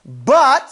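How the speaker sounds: BUT set apart and emphasised; a pointed, standalone BUT; stress on BUT. Shown as a demonstration. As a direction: land firmly on BUT as a turning point. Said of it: "see how I said, "But"?".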